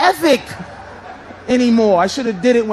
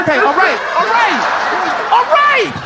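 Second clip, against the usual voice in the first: panicked okay; 7 semitones higher than usual. Retold or imitated. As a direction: give in faster and more scared. Panicked agreement to gunman.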